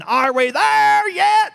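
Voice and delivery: high, slow whine; whiny kids yelling. Acted. Boys in the wagon whining at their parents, high drawn-out whine. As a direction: stretch it out like a bored kid in the back seat. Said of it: "All the boys were yelling".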